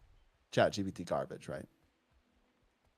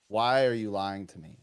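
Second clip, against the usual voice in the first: lower, firmer retold confrontation; growing upset; 3 semitones lower than usual. Teacher confronting a lying student, increasingly upset. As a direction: press the question lower, more upset. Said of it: "getting more and more upset".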